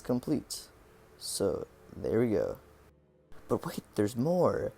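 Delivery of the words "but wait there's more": slow, dramatic announcer voice; infomercial announcer. Acted. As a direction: sell it like a TV pitchman. Infomercial catchphrase before evil twist.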